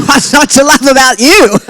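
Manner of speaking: high, laughing question; giggly teasing; laughing delight. Real, not acted. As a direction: laughs while asking. Laughing at her own story.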